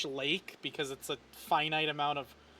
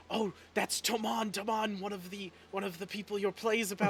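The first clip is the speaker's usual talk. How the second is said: excited whisper-brag; 4 semitones higher than usual. Acted. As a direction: point out the hero to the kids. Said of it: "hear her go".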